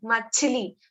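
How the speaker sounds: मछली said with a strong puff of air on the chh; teacher models मछली, air bursting on chh; model word. Shown as a demonstration. Teacher to students, careful aspirated model. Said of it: "जब हम बोलते हैं मछली".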